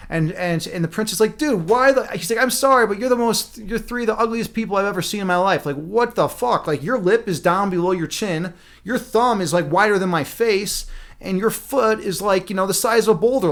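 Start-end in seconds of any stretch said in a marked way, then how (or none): 1.4-2.1 high, appalled false start; horrified disbelief. Acted. Prince seeing the odd-looking women, horrified. 2.4-13.5 appalled, high-pitched rant; horrified disbelief. Acted. Prince facing his bride's odd-looking cousins, horrified. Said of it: "like, horrified".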